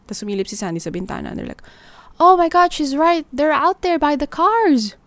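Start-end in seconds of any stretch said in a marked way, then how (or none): 2.2-5.0 alarmed whisper-shout. Retold or imitated. Sandy spots ambushers outside.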